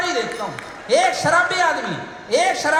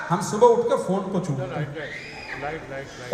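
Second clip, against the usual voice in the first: slow laughing delivery; 11 semitones lower, 5 dB quieter, much slower than usual. Real, not acted. Comic contrast, slowed, laughing.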